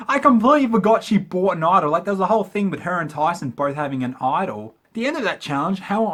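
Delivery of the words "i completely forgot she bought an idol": laughing. Real, not acted. Laughs at own forgetting.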